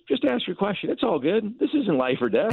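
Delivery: high-pitched, imitated laid-back manager; retold "relax", pitched well up; easygoing reassurance.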